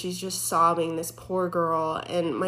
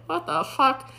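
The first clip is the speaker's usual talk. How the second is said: alarmed; 7 semitones higher than usual. Retold or imitated. Elevator keeps going down.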